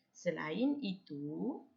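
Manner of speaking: "Selain itu" read slowly, rising on "itu", then a pause; comma intonation. Shown as a demonstration. Teacher showing how to pause at a comma, "itu" drawn out and rising. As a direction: hold "itu" with a rising tune and rest at the comma. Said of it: "Ah, intonasi dia. Kalau sebutan ni lah".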